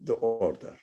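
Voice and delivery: ordinary talk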